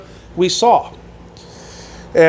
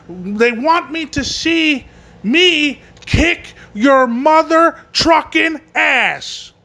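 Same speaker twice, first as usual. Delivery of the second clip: building mock wrestling promo, ending high and slow; Bully Ray promo; 4 semitones higher, slower than usual. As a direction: imitate a wrestler's taunt, stretching out the final threat. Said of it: "Bully goes".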